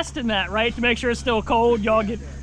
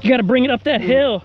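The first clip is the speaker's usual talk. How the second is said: cycling hard; 4 dB louder than usual. Real, not acted. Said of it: "My legs are on fire right now".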